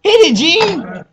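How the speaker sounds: high, loud rock-frontman voice, slowing on Hit it, Gene; impression of a rock singer. Co-host does a rock star calling to his bandmate on stage. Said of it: "that's my Paul Stanley impression".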